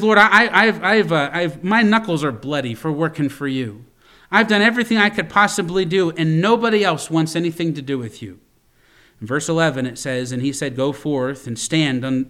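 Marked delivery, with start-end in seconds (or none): 0.0-8.4 pity party. Retold or imitated. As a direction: whine to God about your hard work. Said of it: "a pity party for Elijah".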